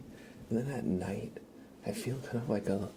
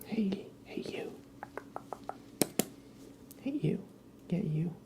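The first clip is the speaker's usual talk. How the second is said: high cooing greeting to a pet; 10 semitones higher, 4 dB quieter than usual. Real, not acted. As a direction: coo hello at the little buddy.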